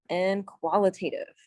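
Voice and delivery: QUALITATIVE taken slowly and deliberately; slow, careful. Real, not acted. Teacher getting through a tricky term for the class, slow and careful. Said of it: "I have to say this slow".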